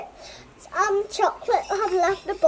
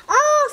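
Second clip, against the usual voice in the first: high, mild mock scream; short scream; 7 semitones higher, 4 dB louder than usual. A narrator's reading. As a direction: scream briefly, lightly acted. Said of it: "screamed the boy".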